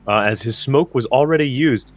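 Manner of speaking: talking through burps; words pushed out around a burp. Real, not acted. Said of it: "I'm talking through burps".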